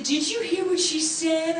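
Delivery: high, loud, slow mock scolding; retold yell. Co-star telling on her to dad, mock yelling. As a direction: call it out slowly, as if to the back row. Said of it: "he yells to the top".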